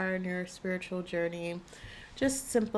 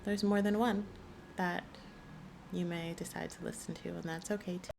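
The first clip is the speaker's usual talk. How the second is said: guided calm voice; 3 dB quieter than usual. Acted. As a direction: gently guide the listener to choose. Leads card choice, slow and soft.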